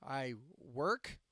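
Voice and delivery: ironic, questioning lift on "work"; air quotes. Real, not acted. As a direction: WORK set off with a pause and an upward lilt. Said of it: "I do that in quotes".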